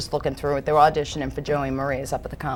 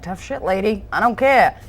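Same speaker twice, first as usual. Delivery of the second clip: brash, louder dismissive retort; rough big mouth; 3 semitones higher, 5 dB louder than usual. Acted. Trash company owner brushes off a complaining customer, brash and rough. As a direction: mouth off like a tough trash lady. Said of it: "rough, big mouth".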